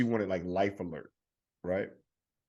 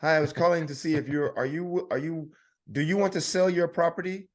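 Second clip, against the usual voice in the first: scam caller voice; 7 semitones higher, 3 dB louder than usual. Retold or imitated. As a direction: sound like a caller unsure of the name. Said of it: "And they go".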